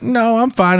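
put-on high, frail old lady voice; granny voice. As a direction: imitate a little old lady. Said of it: "granny voice".

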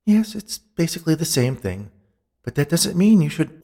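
high woman's voice, reluctantly agreeing; high-voiced spirit giving in; conceding ghost woman. A narrator's reading. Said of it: "She sighed, then nodded her agreement".

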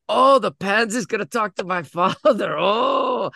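imitating a cocky kid, pitched high; high playground jeer, acted out; mocking taunt. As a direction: mimic a child sneering at an empty threat. Boy mocks threat to tell father.

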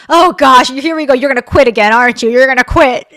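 imitating the boss. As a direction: tease him by acting out his groaning. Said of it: "it was funnier because you were like".

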